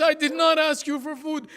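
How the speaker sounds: put-on shouting the child's words high; child's cry. A narrator's reading. Child shouting at the guards, high wailing cry. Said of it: "this child says".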